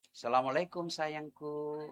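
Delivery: salam pelan dan lembut, lebih lirih; lembut menyapa suami. Shown as a demonstration. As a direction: menyambut suami dengan manis. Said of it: "tutur kata yang lembut". (istri menyambut suami pulang dengan salam lembut)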